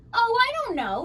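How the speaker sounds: loud high mock-menacing voice; trying to sound scary. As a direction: ham up a scary monster. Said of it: "trying to sound terrifying".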